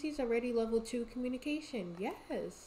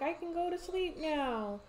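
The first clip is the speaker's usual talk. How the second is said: higher, softer put-on toddler voice; voicing the toddler; 7 semitones higher, 5 dB quieter than usual. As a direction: speak for a sleepy little one. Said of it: "She's like".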